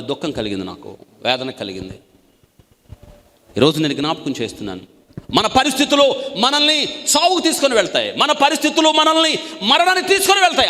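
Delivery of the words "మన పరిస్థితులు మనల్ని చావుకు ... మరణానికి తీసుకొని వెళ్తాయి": high, loud warning cry; a preacher's urgent call; fiery preaching. Acted. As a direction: proclaim it with full force. Preaching burst on despair.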